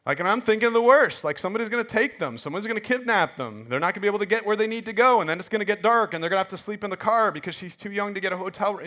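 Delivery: worst-case worries tumbling out, retold; retold worry spiral. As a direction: recount a mounting mild panic. Retelling his spiralling worry about his kids.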